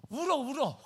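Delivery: high, loud, laughing. Real, not acted. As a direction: burst out laughing. Laughing at crying Americans.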